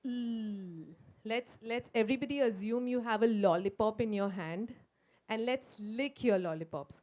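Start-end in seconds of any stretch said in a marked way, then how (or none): 0.0-0.8 "L" as a held "lll" sound; phonics sound. Shown as a demonstration. Teacher modelling the right sound, "L" as "lll". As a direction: say "L" as the tongue sound "lll", no vowel. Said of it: "It is".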